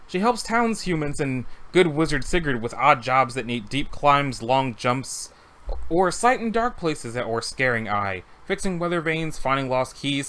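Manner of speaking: a hint of a cat-folk Khajiit accent, listing her odd jobs; deep Khajiit accent. Khajiit acrobat lists her jobs to the hero, light Khajiit accent. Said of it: "It just says she has a deep accent".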